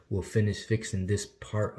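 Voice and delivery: touching lip while talking; fingers against lips. Real, not acted. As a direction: hand at mouth. Seen 2: Fingers touch lower lip at start of words, gone by 0.8.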